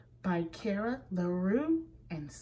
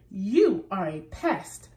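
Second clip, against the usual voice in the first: mild shout; 6 dB louder than usual. Acted. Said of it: "shouted Rabbit".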